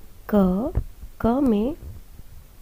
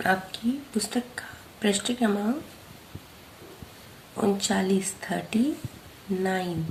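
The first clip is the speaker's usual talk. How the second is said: whisper; 9 dB quieter than usual. Real, not acted. Teacher reading page number softly.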